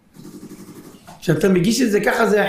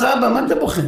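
put-on child asking; 7 semitones higher than usual. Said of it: "ואז הוא אומר לך".

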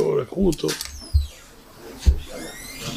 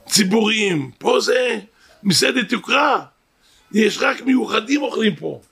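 retold angry scolding; 3 semitones higher than usual. Restaurant shift manager berating a poor family, retold indignant scolding. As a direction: imitate an outraged telling-off without shouting. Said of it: "צועק עליהם".

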